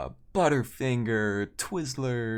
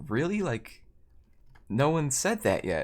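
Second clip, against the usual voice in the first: higher-pitched mild indignation; a little defensive; 5 semitones higher than usual. Retold or imitated. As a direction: imitate someone challenging the host in disbelief. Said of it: "she gets a little defensive".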